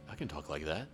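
low, hushed ASMR imitation; mock ASMR. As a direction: drop into a soft imitation of ASMR. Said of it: "time they're doing A S M R".

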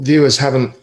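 coughing, choked on whiskey; choking on a drink. Real, not acted. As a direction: sputter through a cough. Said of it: "I'm just choking on my whiskey here".

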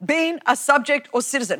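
reciting the oath in a formal, ceremonial tone; mock-solemn recital of the oath. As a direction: read it like a solemn legal pledge. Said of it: "Who speaks like this?".

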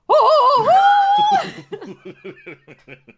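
long, very high opera note; hammed-up sustained soprano hoot; mock operatic wail. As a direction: belt a soprano note to announce yourself. Mock opera singer announcing her arrival.

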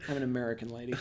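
put-on Scottish accent, deadpan; amused imitation of Scottish speech. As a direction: confess it in a mock Scottish accent. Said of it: "You sound like Mel Gibson".

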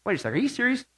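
first stunned, hushed take of "Are you serious?"; disbelief, quiet. Real, not acted. Preacher reacts to believers being called haters, quietly stunned.

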